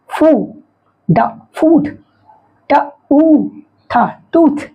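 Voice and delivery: "फू", pause, "ड", then whole "फूड"; sounding out OO. Shown as a demonstration. Teacher blending double O words, "फूड" and "टूथ" sounded out slowly in parts. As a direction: break "टूथ" into separate sounds around a long "ऊ". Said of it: "इसका उच्चारण क्या होगा".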